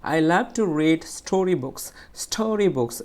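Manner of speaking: slow reading, "story books" lifted and forceful; stress on "story books". Shown as a demonstration. Teacher modelling a sentence, "story books" pushed out. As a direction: give "story books" extra weight and time. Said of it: "স্টোরি বুকস বলতে গেলে আমাকে অন্যগুলো থেকে একটু জোরে".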